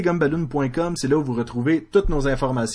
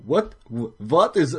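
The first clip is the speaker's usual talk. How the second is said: put-on German accent; much slower than usual. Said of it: "ça, c'est allemand".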